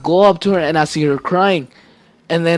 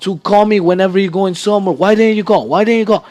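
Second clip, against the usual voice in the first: a touch higher, imitating a yelling dad; mock angry yell; 4 semitones higher than usual. Son retelling how his dad scolded him, mildly mock-angry. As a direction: replay dad's scolding as a mild mock yell. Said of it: "screaming at me".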